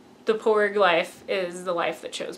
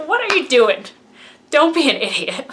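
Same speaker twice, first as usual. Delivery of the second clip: higher, louder mock scolding; sassy Luke; 4 semitones higher, 3 dB louder than usual. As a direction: snap at her like a fed-up teacher. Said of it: "I love sassy Luke".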